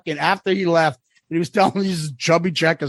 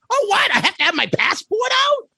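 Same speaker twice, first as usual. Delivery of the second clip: much higher, whiny dumb voice; mocking clueless fan; 12 semitones higher than usual. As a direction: play the confused fan who never listened. Mocking clueless fans at check-in.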